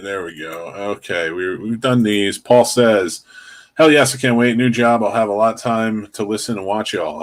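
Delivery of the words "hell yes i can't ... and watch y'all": ordinary talk, nothing marked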